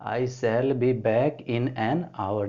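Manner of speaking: "an hour" said slowly, with "an" stressed; teacher reading out the corrected sentence; slow, stressed answer. Shown as a demonstration. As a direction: dictate the full answer, leaning on "an". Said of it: "एन हो जाएगा".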